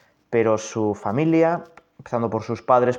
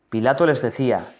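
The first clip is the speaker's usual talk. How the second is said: measured, solemn reading of the Passion; scripture reading. Acted. Priest reading the Passion to the congregation, solemn. Reads Gospel passage in meditation.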